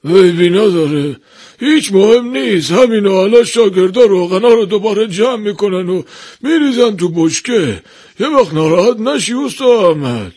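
high-pitched, friendly master's voice; good-natured reassurance. A narrator's reading. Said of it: "با خوشرویی گفت". (دلداری با خوشرویی و صدای زیر)

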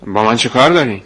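sharp. Acted. Boy sharply asks the stranger what he wants, mild edge. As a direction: snap back, mildly on guard. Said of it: "با تندی گفتم".

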